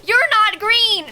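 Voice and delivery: high, drawn-out cry of dismay; dismayed outburst. Real, not acted. Streamer rejecting a villager who isn't green, dismayed outburst. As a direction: protest it high and slow.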